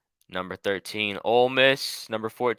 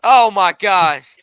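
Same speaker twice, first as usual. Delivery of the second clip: startled; 7 semitones higher, 13 dB louder, much slower than usual. Real, not acted. Startled by loud shout.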